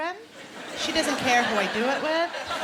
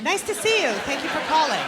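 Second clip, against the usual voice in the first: excited dad; 2 semitones higher than usual. Retold or imitated. Dad gushing over a girl calling his son. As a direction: keep gushing at the caller. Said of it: "he would get really excited".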